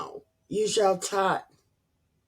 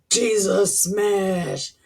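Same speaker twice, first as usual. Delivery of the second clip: mock Hulk catchphrase; 3 semitones higher, 4 dB louder, much slower than usual.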